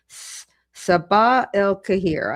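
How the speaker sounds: Sabah El Kahir spelled out slowly, syllable by syllable; slow, careful try at Sabah El Kahir; careful attempt. Shown as a demonstration. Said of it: "did I get close to it this time".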